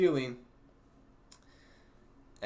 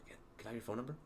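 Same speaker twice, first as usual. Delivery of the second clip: a hushed, mock-secretive request; whisper; 10 dB quieter, much faster than usual. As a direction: lean in and ask softly, much softer. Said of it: "I lean in and I whisper".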